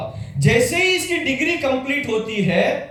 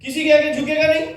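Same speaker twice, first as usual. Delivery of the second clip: emphatic preaching; 5 semitones higher than usual. Real, not acted. Preacher-style build to the crowd.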